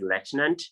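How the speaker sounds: lieutenant as LET-nant, F dropped; under-articulated pronunciation. Shown as a demonstration. Teacher showing poor articulation, lieutenant as LET-nant. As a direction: leave the F out of lieutenant. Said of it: "you're not articulating".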